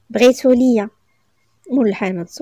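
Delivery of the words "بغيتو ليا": ordinary delivery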